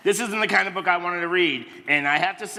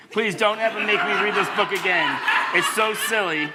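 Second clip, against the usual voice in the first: laughing; 2 semitones higher than usual. Real, not acted. Laughing through silly reading.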